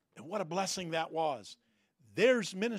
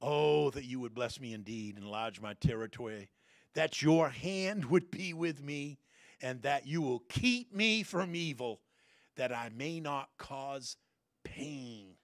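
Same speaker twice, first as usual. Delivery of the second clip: earnest prayer; 6 semitones lower than usual. Acted. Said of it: "Jabez called on the God of Israel".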